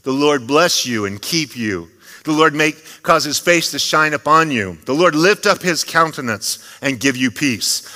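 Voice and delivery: bestow the blessing on the people; priestly blessing. Acted. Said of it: "convey a blessing to the people".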